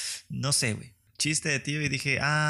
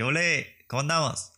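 northern Mexican accent; 3 semitones higher than usual. Shown as a demonstration. Chatting with northern folks, northern Mexican accent. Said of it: "me sale mi acento norteño".

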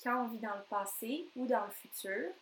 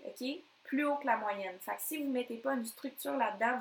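usual speaking voice

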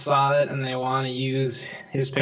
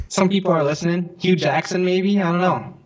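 echoing; 3 semitones higher, 3 dB louder than usual. Real, not acted. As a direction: voice ringing in a big room. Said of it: "You sound like you're echoing a little bit".

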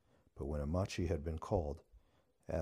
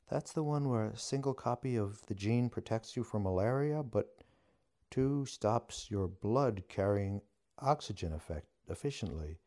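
higher, lightly voiced young witch recalling school facts; lightly voiced eager student witch; 5 semitones higher than usual. A narrator's reading.

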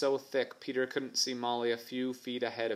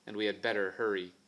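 suddenly serious; 2 semitones lower, faster than usual. Acted. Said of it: "suddenly serious".

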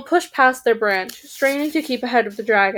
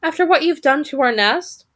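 huffy raven; 4 semitones higher, 3 dB louder than usual. Acted. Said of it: "said the third raven".

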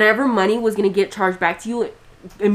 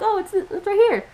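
customer service voice; 13 semitones higher than usual. Retold or imitated. Cheerful reply to the customer.

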